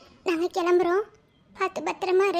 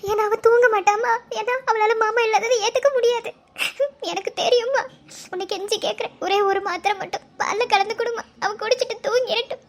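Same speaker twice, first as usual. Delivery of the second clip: crying plea; 4 semitones higher than usual. Acted. Begging mother, voice breaking.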